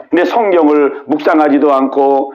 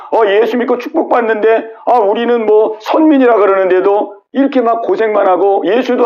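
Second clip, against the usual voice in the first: acted complaint, mostly pitched higher; resentful grumbling; 4 semitones higher than usual. Chosen people protesting their hardship to God, grumbling. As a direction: air a mock grievance in a lifted voice. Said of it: "그냥 막 원망 불평해".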